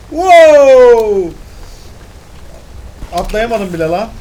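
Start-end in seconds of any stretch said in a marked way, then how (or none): 0.1-1.3 loud wow. Real, not acted. Gamer amazed at game scene.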